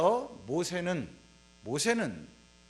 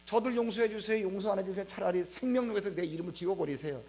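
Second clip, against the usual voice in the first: pleading prayer; 3 dB quieter than usual. Acted. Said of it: "내가".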